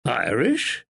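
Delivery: rising surprised question. Acted. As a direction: catch the word in surprise.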